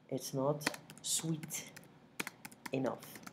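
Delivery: it's not sweet enough, stretched word by word; very slow, deliberate model phrase; slow model sentence. Shown as a demonstration. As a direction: spell it out slowly for learners. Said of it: "Construction is completely different in English".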